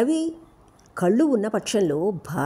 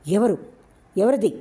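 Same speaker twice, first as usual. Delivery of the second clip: jolted, louder, higher question; startled; 4 semitones higher, 4 dB louder than usual. Acted. Ravi jolted by a stranger's voice, startled. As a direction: snap awake at a stranger's voice. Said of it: "ఉలిక్కిపడి తల ఎత్తి".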